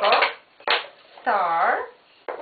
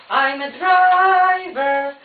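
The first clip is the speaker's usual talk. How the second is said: proud driver; 6 dB louder, slower than usual. Pretend. Playing driver for child.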